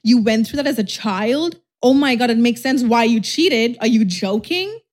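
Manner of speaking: slow, wide-eyed fake sympathy; mock gullible girlfriend. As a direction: play the fooled believer. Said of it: "And you're like".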